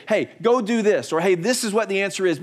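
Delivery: emphatic, matter-of-fact voice from heaven; audible voice of God. Acted. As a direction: play God simply telling someone what to do. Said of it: "in a real, tangible voice, say".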